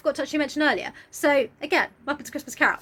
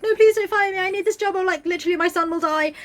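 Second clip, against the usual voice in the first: higher, louder put-on begging; mock pleading clerk; 4 semitones higher, 3 dB louder than usual. Bob begging Scrooge not to fire him, higher pleading.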